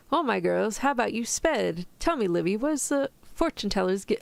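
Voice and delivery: bad mock British accent; attempted British accent. Shown as a demonstration. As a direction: put on a shaky-quality British reading accent. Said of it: "I'll try and say that earlier line".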